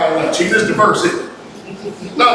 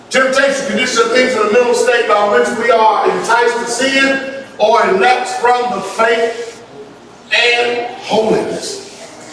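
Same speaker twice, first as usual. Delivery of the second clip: measured definition reading; reading aloud; 3 semitones higher, slower than usual. Acted. Preacher reading a definition to the congregation, deliberate. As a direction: read it out deliberately, stretching the last words.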